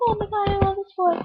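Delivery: high, lovestruck swoon; Peggy. Retold or imitated. Character gushing over a boy she loves, high-pitched swoon.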